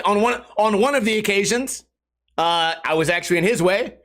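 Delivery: usual speaking voice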